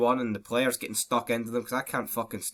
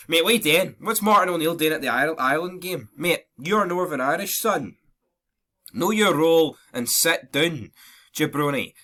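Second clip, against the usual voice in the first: raised, louder, indignant rant; higher-pitched exasperated dressing-down; mock telling-off; 5 semitones higher, 5 dB louder than usual. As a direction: scold him like a fed-up fan. Mock telling-off of Martin O'Neill.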